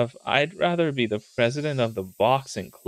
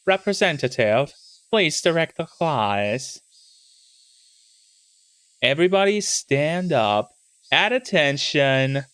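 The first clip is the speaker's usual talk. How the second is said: teacher voice; 3 semitones higher than usual. Acted. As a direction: dismiss the class with authority. Teacher ending class.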